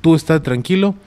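imitating a friend telling him to stay calm; friend's command. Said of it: "Él me dijo".

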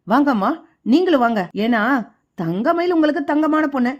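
a son yelling his grievance at his mother, understated; shouting. Acted. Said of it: "சரவணன் கத்துறாரு". (லேசான கத்தல்)

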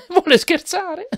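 high, loud exclamation through nervous laughter; incredulous, laughing squeal. A narrator's reading. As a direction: laugh nervously in disbelief as you ask. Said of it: "esclamò con una risata nervosa".

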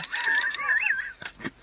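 sudden high squealing laugh; burst of laughter. Real, not acted. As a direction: laugh out, shrieking with surprise. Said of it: "I don't know what to make of this".

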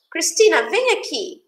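lightly acted summons to a child; calling from afar. Mother calls Cristina over in Portuguese, mildly calling out. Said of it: "A mãe grita, né? Lá de longe".

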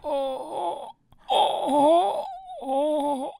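soft, high-pitched moans; high whimpering groans.

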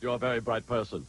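put-on mystery guest voice; Brian Brunschweiger voice. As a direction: answer in a lightly disguised character voice. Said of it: "I do my Brian Brunschweiger voice".

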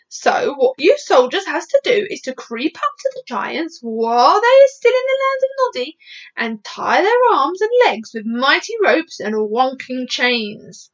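animated, swooping explanation; lively BFG voice, slowing at the end; giant laying out a plan. Acted. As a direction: explain eagerly, leaping up in pitch midway. BFG lays out his plan.

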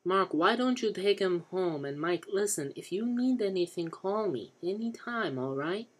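high-pitched, insistent friendly offer; concerned Johnny. Acted. Voices Johnny in the story.

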